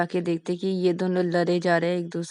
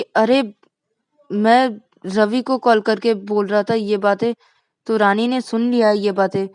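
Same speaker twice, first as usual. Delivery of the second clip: louder, slow explanation; defensive explaining; 2 semitones higher, 5 dB louder than usual. Acted. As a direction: justify yourself to a friend. Rahul explains himself. (सफ़ाई देते हुए ऊँची आवाज़)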